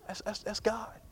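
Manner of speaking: a reverent whisper on God's name; hushed whisper. Real, not acted. Preacher whispering to his congregation about God, reverent whisper. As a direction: breathe it out in a whisper.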